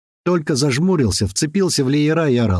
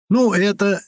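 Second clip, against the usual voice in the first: flustered; 9 semitones higher, slower than usual. A narrator's reading. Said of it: "немного растерялся мамуля".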